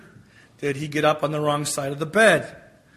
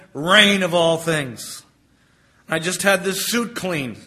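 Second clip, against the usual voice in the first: grumbling; slower than usual. Acted. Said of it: "Claude started to grumble".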